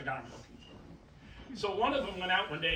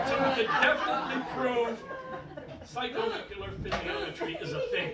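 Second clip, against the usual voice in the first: laughing through words; 6 semitones higher, 8 dB louder than usual. Real, not acted. Magician cracking up mid-trick.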